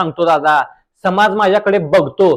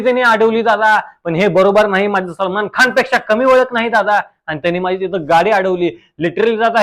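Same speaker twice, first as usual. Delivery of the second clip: reel star guest voice. Acted. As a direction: play the smug village reel star. (रील स्टारचा आवाज)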